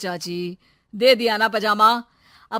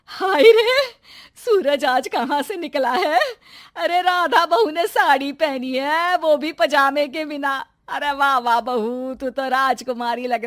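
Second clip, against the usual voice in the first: delighted surprise; 4 semitones higher than usual. Acted. Mother-in-law seeing her daughter-in-law in a saree, delighted surprise. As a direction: gasp at the sight of her in a saree.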